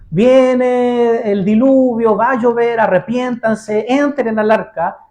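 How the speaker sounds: Noah preaching. Retold or imitated. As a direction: cry out the warning slowly like a prophet. Noah preaching coming flood.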